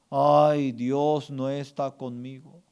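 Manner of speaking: drawn-out, complaining "Ay"; mock lament. Pastor voices words to eliminate from the heart, mock lament. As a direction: moan it like a defeated believer. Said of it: "Usted tiene que eliminar tres palabras".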